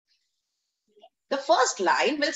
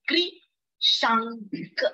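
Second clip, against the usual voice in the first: कृषांक broken up with long gaps between syllables; very slow, separated syllables in कृषांक; 2 semitones lower, much slower than usual. Shown as a demonstration. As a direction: stretch कृषांक out, one syllable at a time. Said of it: "तीन syllable".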